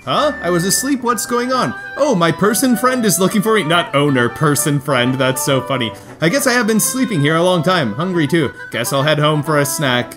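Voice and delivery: high, drowsy little cat voice; sleepy cat voice. Acted. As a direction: voice a just-woken cat. Voicing the cat's thoughts.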